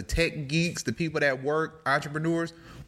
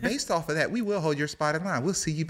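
robot cashier; 3 semitones higher than usual. Acted. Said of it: "I want at least two robot cashiers".

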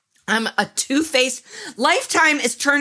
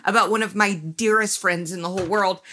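laughing through words. Real, not acted. Laughs while faking innocent denial.

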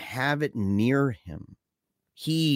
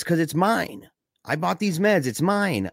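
higher, stubborn mock retort; retold possessive retort; 6 semitones higher than usual. Michael defending his meds from Andy, mild mock anger. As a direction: stake the claim in a hammed-up quarrel. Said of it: "they're yelling at each other".

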